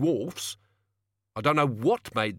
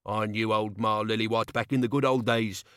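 angry threat; 3 semitones higher than usual. Acted. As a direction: threaten him with the crowbar. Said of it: "he said".

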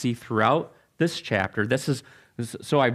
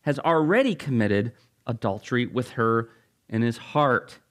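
measured, lower-pitched Bible reading; scripture reading; 3 semitones lower than usual. Acted. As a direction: read the passage out solemnly to the congregation. Reading scripture aloud to congregation.

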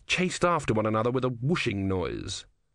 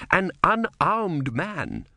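slow, loud stern accusation; shouting; 7 semitones higher, 3 dB louder, much slower than usual. A narrator's reading. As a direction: press the outrage home. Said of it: "shouted Vorbis".

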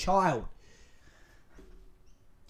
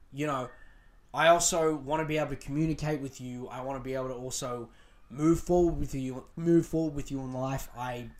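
lower-pitched, sincere appeal; calm and collected; 5 semitones lower than usual. Shown as a demonstration. Girlfriend explaining what she wants to her boyfriend, calm and sincere. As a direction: lay it out gently, keeping your cool. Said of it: "you gotta keep your calm".

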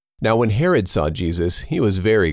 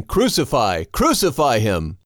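understated shout, pitched higher; a restrained raised demand, not full volume; mild shout; 5 semitones higher than usual. Acted. Crowd demanding Pilate crucify Jesus, mild higher shout. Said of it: "But they shouted".

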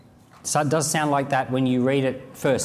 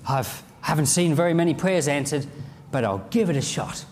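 doubtful inner voice. Retold or imitated. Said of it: "you say to yourself".

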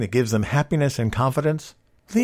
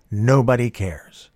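ordinary delivery

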